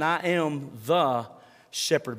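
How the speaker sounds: slow "I am the", leaning on "the" before "shepherd"; stress on THE. Shown as a demonstration. Pastor unpacking Jesus' claim, slow with weight on "the". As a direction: drag out "I am the" and land on "shepherd". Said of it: "he makes this statement".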